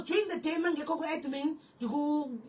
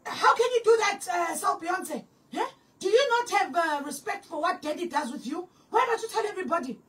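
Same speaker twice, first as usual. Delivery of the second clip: imitating a scolding leader; 3 semitones higher than usual. Leader scolding a girl at the nightly meeting, mock anger. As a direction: play the leader publicly shaming a girl, half-hammed.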